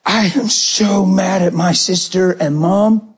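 lightly voiced little boy, slow and emphatic; eight-year-old son. Son confiding in Daddy about sister and Mom, slow childlike earnestness. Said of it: "He was eight years old".

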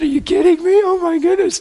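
loud, high thrilled exclamation; excited. Retold or imitated. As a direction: burst out with delight. Excited retelling on the plane.

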